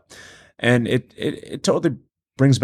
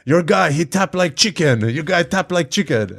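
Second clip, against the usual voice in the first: slow, higher mock Russian accent, jokingly quoting Khabib; a playful Russian accent, pitched up and drawn out; imitating Russian accent; 7 semitones higher than usual. To Joe Rogan, imitating Khabib's Russian accent, hammed-up. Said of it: "I'm butchering the Russian accent".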